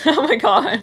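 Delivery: real laughter. Real, not acted. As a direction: gasp it out while laughing. Bursts out laughing.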